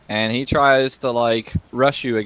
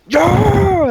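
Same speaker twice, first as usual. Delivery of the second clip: loud, high victory cry; hammed-up kobold crowing to the crowd; long whooped cheer; triumphant yell; 6 dB louder than usual. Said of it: "And he's like".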